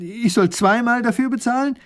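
can't believe he must pay twice; outraged disbelief. Acted. Duke outraged at paying twice. (empört ungläubig, viel höher)

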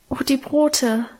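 a mild, sighing lament; seufzend. A narrator's reading. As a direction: sigh out the words in dismay. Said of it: "seufzte Minchen". (leise seufzend, bestürzt)

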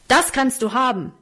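gemäßigter Zorn, etwas höher; zorniger Vater. A narrator's reading. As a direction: gespielter Ärger, nicht voll ausgespielt. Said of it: "in höchstem Zorn". (Vater droht Minchen, mild zornig)

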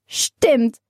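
a cackling giggle through the word; giggly cackle, hand over mouth. A narrator's reading. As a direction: cackle it out, barely holding in a laugh. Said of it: "gackert sie".

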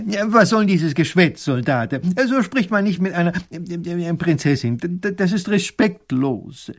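high, spluttering indignation; annoyed professor. A narrator's reading. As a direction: scold the soldier, stammering in outrage. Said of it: "der Professor sagt ärgerlich".

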